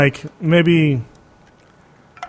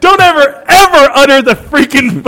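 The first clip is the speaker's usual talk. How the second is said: mock outrage; 9 semitones higher, 4 dB louder than usual. Mock outrage defending Henson.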